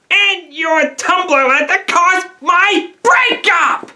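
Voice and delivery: slow, accusing outburst. Acted. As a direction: build the accusation, stretching each word. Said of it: "lower your fucking voice towards me".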